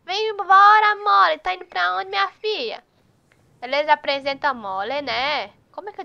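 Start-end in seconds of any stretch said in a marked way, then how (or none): 0.0-2.8 voicing the horse. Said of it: "ele tá dizendo".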